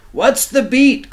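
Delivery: a horse calling out to the pig. Acted. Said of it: "called the horse".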